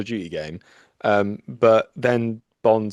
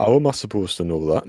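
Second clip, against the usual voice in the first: put-on a faint Dudley accent that slips back to the other one; lightly voiced Dudley accent. Host attempts the sign off in his own Dudley accent. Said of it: "I'll do it in a Dudley accent then".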